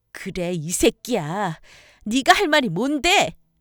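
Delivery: slow, loud, angry shout. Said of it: "저도 소리를 질렀죠".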